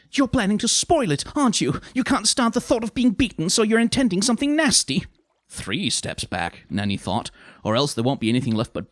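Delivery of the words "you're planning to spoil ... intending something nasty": high, loud, aggrieved voice; indignant committee witch, accusing. Acted. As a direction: pile up the accusations against her. Lettuce accuses Granny of spoiling it.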